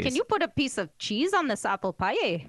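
hammed-up Minnesota accent. Shown as a demonstration. Podcaster requesting cheese on pie, Minnesota accent. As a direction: ask it like a folksy Minnesotan. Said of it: "Minnesota accent".

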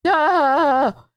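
high, drawn-out cry of pretend alarm; mock scream. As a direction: wail it high in playful panic. Mock alarm at ship leaving.

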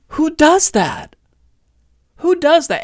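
high, slow words through laughter; laughing. Real, not acted. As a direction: laugh in disbelief while asking. Laughing at the video.

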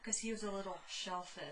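a sly whisper for the punchline. Acted. Telling her co-host the shrimp pun, whispered. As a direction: whisper the pun's last line.

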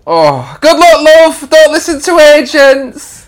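high, slow motherly voice; doting mum. Acted. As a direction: fuss over him like a mum.

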